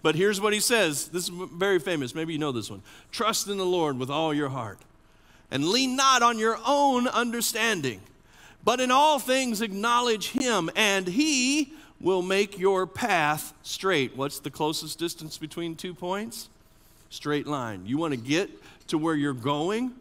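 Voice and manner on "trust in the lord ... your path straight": proclaimed proverb. Shown as a demonstration. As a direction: announce the scripture to the whole room. Proverb proclaimed, first reading.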